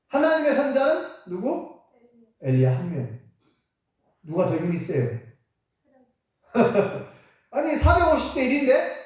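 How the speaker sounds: ordinary talk, nothing marked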